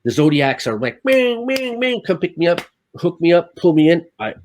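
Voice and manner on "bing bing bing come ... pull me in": high, loud calls of boat crew; rescuers calling out. Retold or imitated. Mimicking rescuers calling on Zodiacs.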